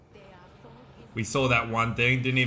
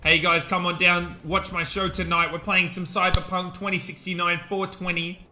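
mock English accent host, a bit higher; 5 semitones higher than usual. Streamer inviting viewers to his show, mock English accent. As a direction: put on a hammy English announcer. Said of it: "I got all English up in here".

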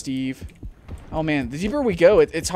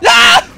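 high, loud sudden shriek; terrified scream; 14 dB louder than usual. Real, not acted. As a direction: scream as it lunges. Sudden shark attack.

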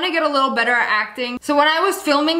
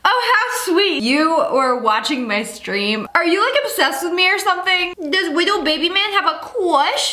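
mocking taunt; 4 semitones higher than usual. Bully taunting the gamer girl.

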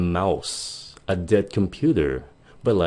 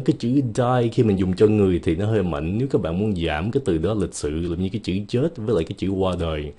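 ordinary talk

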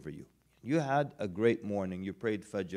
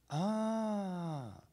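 mock realization; 8 semitones higher, 7 dB quieter than usual. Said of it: "we're good at saying".

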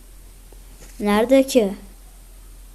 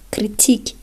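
whisper. Real, not acted. Whispered in disbelief.

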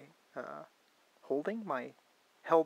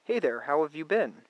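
louder, deliberate dictation into a phone mic; raised voice dictating a text message; 3 semitones higher, 7 dB louder than usual. Shown as a demonstration. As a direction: speak it clearly for voice typing. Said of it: "I would say".

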